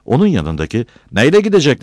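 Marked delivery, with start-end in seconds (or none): 1.1-1.8 high, loud scoff; raised-voice heckle; jeering. Acted. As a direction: toss out a mocking question loudly. Villager jeers at Battal's poverty.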